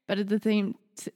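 lisp. Real, not acted. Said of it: "I literally have a lisp right now".

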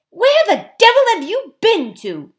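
a high, loud furious outburst; furious whisper. A narrator's reading. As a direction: snap at her, scared and cross. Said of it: "said Eustace in a furious whisper".

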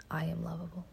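whispered repeat of the affirmation; whispered echo. Shown as a demonstration. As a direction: whisper it back to yourself. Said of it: "Say it with me".

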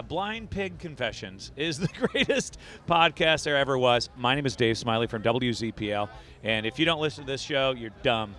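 radio promo. Pretend. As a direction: sell the show like a DJ promo. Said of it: "Smiley, do a promo for us".

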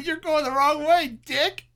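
high, jokey insult to a wrong-way driver; playful pretend rage; mock road rage. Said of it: "mocks rude drivers".

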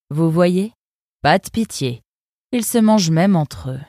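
a cool, sardonic river guard; fox guard's voice. Acted. Eunice sizing up the arrivals, lightly voiced sardonic fox. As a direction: speak down to the newcomers, unimpressed. Eunice after eating the fish.

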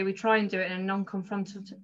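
speaking with loose dentures; words slipping round loose false teeth. Real, not acted. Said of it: "sorry, I'll get, put my teeth in".

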